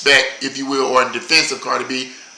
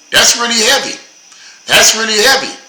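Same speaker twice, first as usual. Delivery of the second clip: emphatic exclamation; 7 semitones higher, 3 dB louder than usual. Real, not acted. Repeated exclamation.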